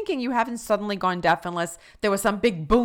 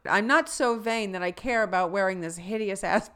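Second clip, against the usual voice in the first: lightly voiced vain teen; 5 dB louder than usual. Mocking Tootie's vanity.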